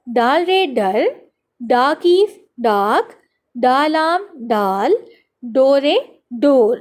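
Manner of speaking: put-on slow, stretched-out syllables for young learners; teacher's measured read-along chant; spelling drill. Shown as a demonstration. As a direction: sound out each letter, then draw out the blended word. Reading drill for children.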